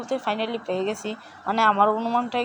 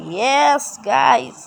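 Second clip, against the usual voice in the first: drawn-out yes; 4 dB louder, much slower than usual. Real, not acted. Finds a bear in game.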